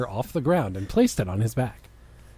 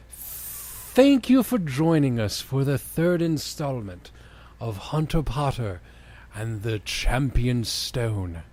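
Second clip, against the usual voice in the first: slow drawn-out announcer read; slow announcer outro; 3 semitones lower, slower than usual. Shown as a demonstration. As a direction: stretch it out like a host sign-off. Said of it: "I'm gonna read this a different way".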